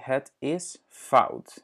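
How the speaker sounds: het is fout said slowly, "fowt" with the Dutch diphthong; teacher models het is fout for the learner; Dutch phrase. Shown as a demonstration. Slow, clear Dutch model. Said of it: "quand quelque chose est faux".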